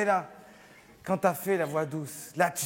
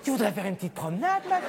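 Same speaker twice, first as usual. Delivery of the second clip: overdone soft voice; faster than usual. Shown as a demonstration. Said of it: "comme un éducateur spécialisé".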